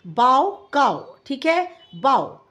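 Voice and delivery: "बाव" said like "काव", rhyming with cow; pronunciation demo. Shown as a demonstration. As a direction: sound out "बाव" to rhyme with "काव". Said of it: "इसको हम ... पढ़ते हैं". ("बाव" को "काव" की तुक में बोलें)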